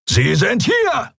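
pirate roaring to his comrades. Acted. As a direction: bellow it to the whole gang. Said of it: "brüllte einer von ihnen".

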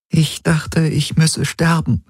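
put-on high young woman's voice; high and fragile; Ylana's voice. A narrator's reading. Ylana confesses her fear to Garland, high and fragile.

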